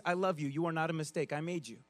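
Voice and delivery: God tenderly telling you you're no mistake; tender reassurance. Retold or imitated. God voiced reassuring the listener.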